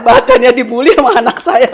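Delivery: amused disbelief, laughing. Real, not acted. Mother laughing in disbelief as she tells the host about her son.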